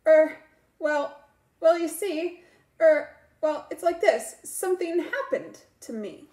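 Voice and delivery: hesitant schoolboy stammering; stuttering. Acted. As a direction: stall and stutter for time. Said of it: "Marco stuttered".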